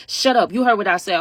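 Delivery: mock angry snap. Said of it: "Martha was getting so mad".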